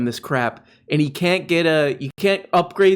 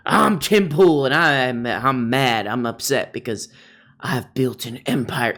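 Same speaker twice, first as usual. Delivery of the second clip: mock Tim Pool. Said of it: "the tweet set off Pool".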